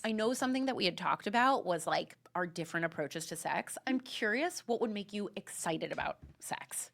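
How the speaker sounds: soft, low seductive message; lightly voiced smooth suitor; sexy voice memo. Shown as a demonstration. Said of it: "this is what a sexy voice memo would be".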